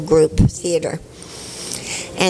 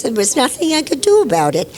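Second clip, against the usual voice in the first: junkie character voice; 6 semitones higher, faster than usual. Shown as a demonstration. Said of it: "talking like this".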